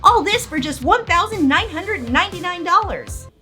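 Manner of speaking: over-the-top TV ad pitch; infomercial. Acted. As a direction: sell it like a late-night infomercial. Parody infomercial read by S0.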